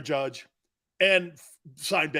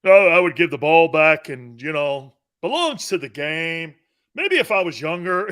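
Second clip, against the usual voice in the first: a touch of a smug rich guy; mock elitist; 6 dB louder than usual. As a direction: mimic a well-off pundit lightly. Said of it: "people with money talk like that".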